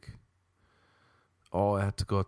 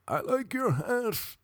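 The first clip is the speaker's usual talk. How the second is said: slow, much higher robot compliment; 14 semitones higher, slower than usual. Retold or imitated. Robot-voiced DMV woman compliments a stranger, slow and high. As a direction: deliver it like a sweet broken robot. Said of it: "a woman in there with a robot voice".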